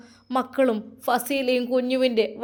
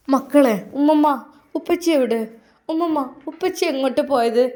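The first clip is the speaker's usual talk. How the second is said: put-on worried child calling; 3 semitones higher, 5 dB louder than usual. The children asking grandma where father went, anxious. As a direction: call out like an anxious little kid.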